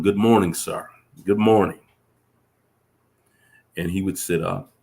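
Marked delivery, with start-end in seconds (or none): 0.0-1.8 louder, called out to someone far off; retold friendly yell. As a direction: call a greeting up the trail, mildly raised. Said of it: "I would yell to him".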